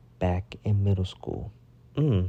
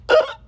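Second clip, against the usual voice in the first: imitated choke noise; 8 dB louder than usual. Reacting to being grabbed by hood.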